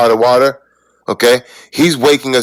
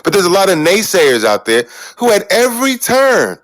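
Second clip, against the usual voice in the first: yelling; 6 semitones higher than usual. Real, not acted. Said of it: "why are you yelling".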